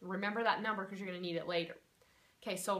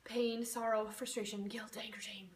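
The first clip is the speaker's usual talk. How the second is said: fading whisper. Shown as a demonstration. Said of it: "keep repeating all of these".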